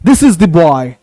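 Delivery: "the" said as दी, not द. Shown as a demonstration. Teacher showing दी boy, not द boy. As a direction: say "the boy" with a long दी. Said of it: "दी boy, द boy नहीं".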